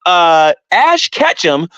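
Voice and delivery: clueless newbie. Retold or imitated. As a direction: sound like a clueless kid explaining evolution. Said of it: "That's how you sound".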